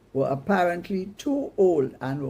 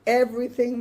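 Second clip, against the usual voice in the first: shocked shout, much higher and louder; 7 semitones higher, 6 dB louder than usual. Acted. Mama shrieks at Mikey over the live bird, loud and high. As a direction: shriek in disbelief. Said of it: "Mama shouted".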